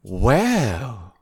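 low, sultry purr; a sultry drawn-out well. Acted. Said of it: "in a much more sultry voice than before".

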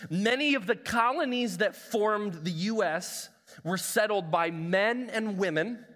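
slow, weighty quotation read aloud; solemn reading. Shown as a demonstration. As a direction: read it like a historic document. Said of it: "It says this".

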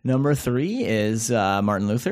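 a hint of a radio countdown DJ; mild mock Top 40 announcer; Casey Kasem impression. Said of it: "Thank you for that Casey Kasem, uh, impression".

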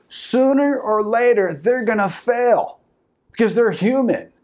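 high-pitched, driving sermon delivery; impassioned preaching. Real, not acted. Preacher telling congregation only Jesus completes them, impassioned preaching. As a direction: press every phrase home to the congregation.

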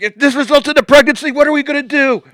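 very high, loud panicked woman's voice. Retold or imitated. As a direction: squeal her worried question. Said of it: "but she's like".

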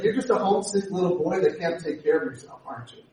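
mocking taunt. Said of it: "He's making fun of him".

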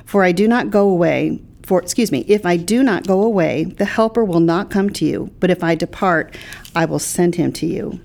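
measured, deliberate Bible reading; scripture reading. Acted. Pastor quoting John to a co-host, scripture reading. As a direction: read the verses out evenly and clearly.

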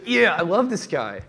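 slow, dreamy mock fan voice; adoring follower. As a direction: play a starry-eyed follower, slowed down.

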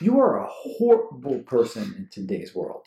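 indignant, emphatic condemnation; worked up. Real, not acted. Ranting at the person who posts headlines, worked up. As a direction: condemn them with real heat. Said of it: "I'm getting worked up".

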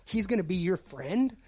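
warning tattoo customer. Retold or imitated. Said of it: "the guy stops me".

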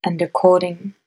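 ordinary talk

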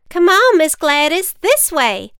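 put-on high, loud eager kid; excited child voice. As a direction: hurry her along, excited. Children leading witch.

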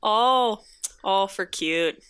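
stretched Minnesota O's; Minnesota accent. Shown as a demonstration. Local showing co-host a saying, Minnesota accent. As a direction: lean on the O's, Minnesota style. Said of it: "they really stretch out their O's".

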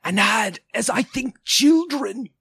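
high, eerie ghost voice; high-pitched otherworldly apparition. A narrator's reading. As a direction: speak as a spirit, pitched well above normal. Ghost speaking to Scrooge.

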